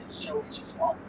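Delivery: high-pitched teasing; high teasing blame. Acted. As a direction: tease her with a high voice.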